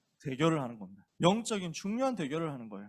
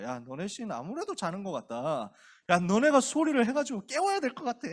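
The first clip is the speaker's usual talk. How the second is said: mocking taunt; 4 dB louder than usual. Elijah mocking the prophets.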